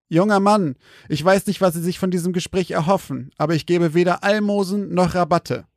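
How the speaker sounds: put-on icy, dismissive old man; cold. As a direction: refuse him coldly, no warmth. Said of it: "Kälte in der Stimme von Kapustin".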